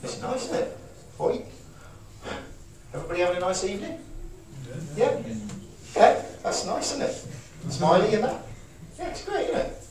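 high, bright-eyed cheer; cheerful demo. Shown as a demonstration. Demonstrating cheerfulness to the audience, high and cheerful.

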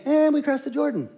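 bored, indifferent voice; dismissive shrug. Retold or imitated. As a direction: toss it off as no big deal. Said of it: "this was not a".

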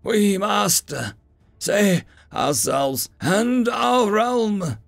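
high, slow wailing hag. A narrator's reading. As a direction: wail like an old hag. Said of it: "the orc hag wailed".

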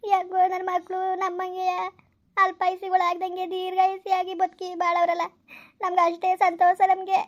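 put-on slow, tearful gratitude for the children; moved parent holding back tears; tearful relief. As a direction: speak slowly, close to crying. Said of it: "ನೀನು ಅಳ್ಬೇಡ".

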